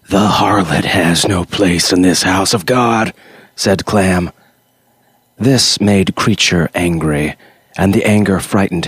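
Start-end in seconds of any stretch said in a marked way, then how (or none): 0.1-3.1 preacher's warning. Acted. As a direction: banish the demon like a sermon. Clam condemns the girl.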